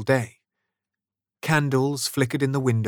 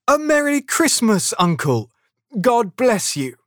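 high, loud festive greeting; cheerful cry; 12 semitones higher, 6 dB louder than usual. A narrator's reading. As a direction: call out a hearty Christmas greeting. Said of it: "cried a cheerful voice".

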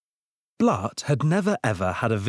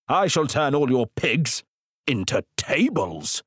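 mild menace; 4 semitones higher than usual. Acted. Wizard threatening Blart's pigs, understated menace. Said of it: "he added menacingly".

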